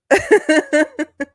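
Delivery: high, loud burst of laughter; can't stop laughing at the joke; big laugh. Real, not acted.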